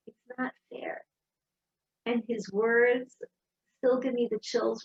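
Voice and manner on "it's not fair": a broken whisper, hardly voiced. Son whispers to his mom in bed, hurt.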